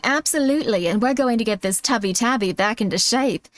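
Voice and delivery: lightly put-on British announcer accent; gently coaxing British TV narrator; soothing British announcer. Shown as a demonstration. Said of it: "that voice is kind of soothing".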